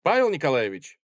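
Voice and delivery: put-on ringing young voice, a touch indignant; сдержанное возмущение; mild indignation. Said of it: "полный искреннего возмущения голос".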